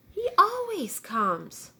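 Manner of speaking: high, slow, whining hen voice; a drawn-out high whine from the hen; whiny hen. A narrator's reading. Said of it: "whined the hen".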